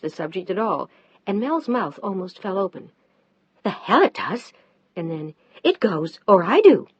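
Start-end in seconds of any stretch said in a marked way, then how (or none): 3.6-6.9 louder final ultimatum; loud angry either-or. Acted. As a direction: slam down the ultimatum. Mel ultimatum.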